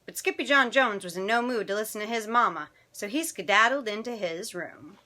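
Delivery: animated picture-book narration; children's story reading. A narrator's reading. Storyteller reading tonight's picture book to children, animated. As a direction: read it expressively to young listeners.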